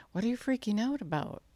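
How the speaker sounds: high-pitched, incredulous chiding; exasperated rebuke. Acted. Jesus to the panicking disciples, exasperated. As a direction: question them in mock exasperation.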